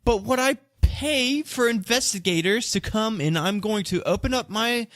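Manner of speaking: high-pitched merchant arguing his innocence; flustered suspect justifying himself; defensive accused merchant. Acted.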